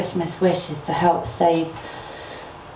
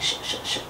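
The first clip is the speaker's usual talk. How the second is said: rattlesnake rattle; 8 dB quieter than usual. Retold or imitated. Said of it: "the first one is the rattlesnake".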